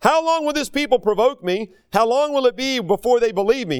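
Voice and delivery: high-pitched, indignant demand; kindled anger. Acted. The Lord to Moses about the disbelieving people, indignant. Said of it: "his anger is kindled against them".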